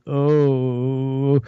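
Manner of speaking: a lightly voiced stunned little oh. Retelling the call, stunned Lorne's small oh. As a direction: let the word die in shock. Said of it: "he just goes".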